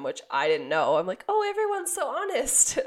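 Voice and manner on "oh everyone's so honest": high, mocking sarcasm; mock naive, dripping irony; sarcastic. Mocking the neighbor's naive claim.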